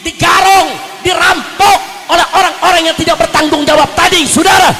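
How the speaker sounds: loud, shouting sermon at full force; fiery preaching. Acted. Preacher rousing the crowd against corrupt officials, shouting. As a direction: hammer each phrase at the crowd.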